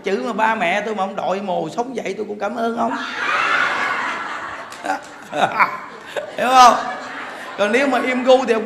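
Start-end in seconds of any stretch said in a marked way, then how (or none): 3.0-6.3 laugh. Real, not acted. Laughing at own joke. 6.4-8.6 laughing question. Real, not acted.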